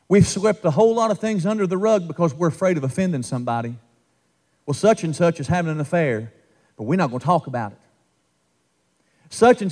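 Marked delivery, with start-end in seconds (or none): 4.7-7.8 mock hush-hush. Mocking church hushing up sin.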